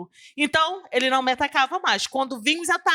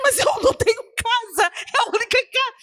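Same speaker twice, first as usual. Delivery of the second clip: higher, distressed and pleading; retold tearful protest; 8 semitones higher than usual. Woman pleading with the voice she thinks is God, tearful and high. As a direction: protest through tears that it's her only house. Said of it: "E eu vim chorando".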